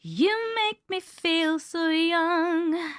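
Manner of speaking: mock seductive line. Repeats the put-on line.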